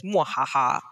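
low mock villain laugh; hammed-up evil mwahaha; mad scientist laugh. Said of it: "she had her Doctor Evil moment".

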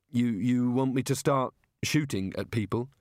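hesitant, stammered question; nervous disbelief. Acted. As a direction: falter on the repeated "You". Reluctant wizard handed crossbows.

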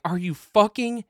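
mock livid disbelief. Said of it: "I'm like".

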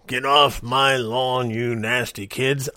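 slow, lightly voiced cranky old man shooing kids; a hint of a grouchy old neighbor, drawn out; mock grumpy old guy. Old guy yelling at nasty kids off his lawn, mock grumpy. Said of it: "I sound like the old guy".

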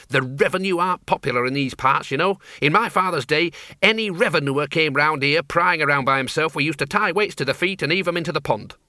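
tart countrywoman with a grudge; feisty old farm woman. Acted. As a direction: rattle it off, indignant. Flitworth character recounting.

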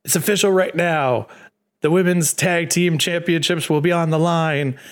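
a touch of Teddy Long; Teddy Long style. Retold or imitated. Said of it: "kinda like Teddy Long style".

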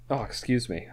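talking through hiccups. Real, not acted. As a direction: catch a hiccup mid-sentence. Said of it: "I got the hiccups all of a sudden".

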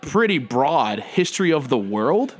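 slow, condescending Harvard snob; smug preppy voice. Acted. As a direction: talk down to him slowly. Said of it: "Harvard preppy douchebag".

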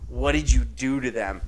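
slow, mock-disgusted accusation; scornful retort. Co-host replaying his friend's rejection of offered chips, slow and mock-scornful. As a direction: imitate a friend's scornful, drawn-out suspicion. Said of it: "you spat in my face".

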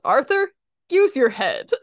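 a mock stern teacher snapping at Arthur. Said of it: "Mister Ratburn just goes".

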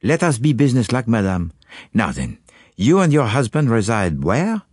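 calm Belgian sleuth probing gently; Poirot. Acted. Poirot questions his anxious client, calm and probing.

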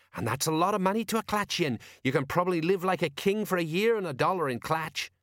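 know-all sergeant; Colon. Acted. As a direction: play the old hand who knows.

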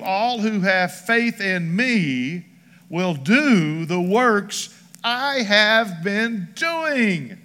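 slow, solemn Bible reading; scripture reading. Acted. Scene: preacher reads verse twelve to the church, solemn. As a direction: read it slowly like a proclamation.

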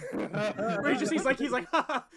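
breathless wheeze laugh. Retold or imitated. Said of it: "he stops being able to breathe".

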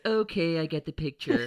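high, loud, exasperated mock mum; mimicking mum. Mum at dinner giving up on the video, high loud exasperated mock. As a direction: cut the video off impatiently. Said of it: "And then she goes".

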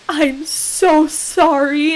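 slow, heartfelt retold apology; sincere apology. Jeweler apologizing to the bride on the phone, sincere and slow. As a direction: let her real regret come through. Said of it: "I could, like, hear it in her voice".

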